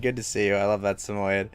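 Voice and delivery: normal talking voice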